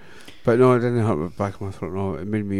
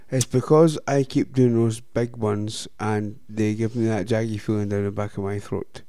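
slow mocking repeat; 4 dB quieter than usual. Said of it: "I'm gonna repeat what you said".

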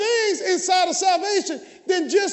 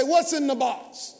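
slow call; 3 semitones lower, slower than usual. Shown as a demonstration. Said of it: "Everybody say".

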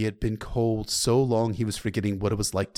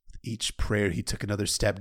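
plain reading voice

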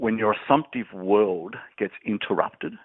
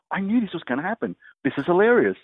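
retold laughing; 9 semitones higher than usual. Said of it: "I'm laughing my head off going".

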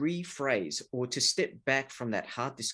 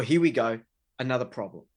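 exasperated; 3 dB louder than usual. Retold or imitated. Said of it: "hears it as a whinge".

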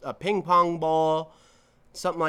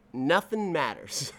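laughing; 3 semitones higher than usual. Real, not acted. Laughs at own bleak line.

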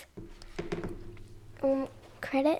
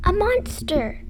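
yelled; 6 semitones higher, 7 dB louder, slower than usual. Acted. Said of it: "yelled Fox".

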